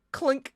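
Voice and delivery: high, quick imitated clink; little clink sound. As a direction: mimic a tiny metallic clink. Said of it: "makes a little sound".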